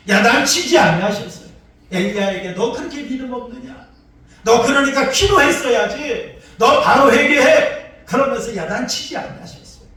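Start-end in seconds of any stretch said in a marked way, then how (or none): 2.5-7.8 mock scolding. Imagined scolding of Elijah.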